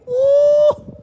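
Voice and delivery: high excited whoop; woo. Real, not acted. Host whooping at the forty-three million total.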